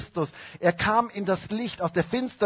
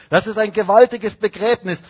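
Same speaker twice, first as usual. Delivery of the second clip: joyful proclamation; 4 semitones higher, 7 dB louder than usual. Acted. Preacher proclaims baptism joyfully.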